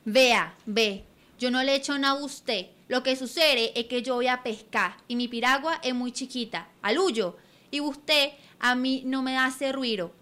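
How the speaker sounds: put-on loud, gruff old boatman; old fisherman voice. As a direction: scold then soften like an old fisherman. Old boatman scolds, then relents.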